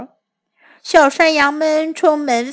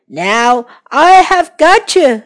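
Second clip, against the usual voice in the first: wolf voice; 5 dB louder than usual. Acted. Wolf catches a kid.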